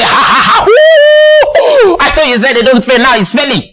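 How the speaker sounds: mocking devil. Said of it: "the devil comes laughing at you".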